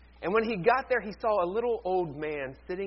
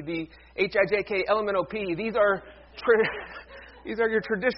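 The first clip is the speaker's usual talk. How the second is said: too much caffeine; 2 semitones higher, 3 dB louder than usual. Real, not acted. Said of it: "I'm, I'm weird today".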